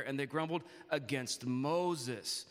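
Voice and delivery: "against Moses" drawn out for emphasis; slow down and lean on "Moses"; slow, pointed stress on "against Moses"; emphasized words. Shown as a demonstration. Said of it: "I'm gonna emphasize certain words".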